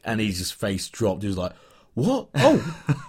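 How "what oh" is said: sudden high startled "What? Oh."; a player caught off guard, jumping up in pitch. Retold or imitated. Player caught off guard by a fan's greeting, startled high yelp.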